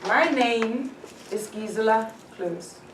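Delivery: slow introduction, pause after "My name"; deliberate self-introduction. Shown as a demonstration. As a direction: give "Gisela Cruz" slowly and distinctly. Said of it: "your tone, when you introduce yourself".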